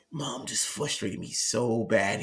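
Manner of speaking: understated imitation of a frustrated teen; retelling a crying son. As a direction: drag it out quietly, lightly upset. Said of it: "He started crying".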